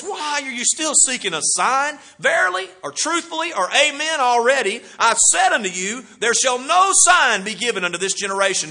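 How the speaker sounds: frustrated rebuke. Retold or imitated. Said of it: "He sighs deeply, and then he says".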